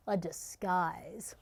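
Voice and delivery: hushed narrator whisper. A narrator's reading. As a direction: breathe the words out secretly. Narrator hushes the disguise reveal.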